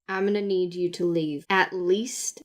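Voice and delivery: a hint of a patient lawman; patient law officer. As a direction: lay down the rule in a low guard voice. Guard sets his terms.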